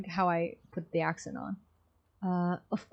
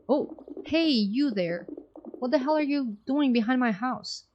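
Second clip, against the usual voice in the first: indignant yell; 5 semitones higher than usual. Acted. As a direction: run off a snooper. Woman yelling at a stranger.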